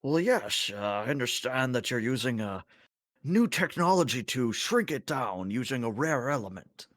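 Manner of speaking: high-pitched, lilting Tholian voice; chittering alien. Acted. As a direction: speak as a fussy, high-voiced alien crewmate. Zyvor answers the doctor.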